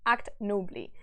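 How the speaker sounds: measured, solemn storytelling; stately reading of a verse tale; epic story narration. A narrator's reading. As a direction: read the old epic aloud with gravity. Reads epic aloud.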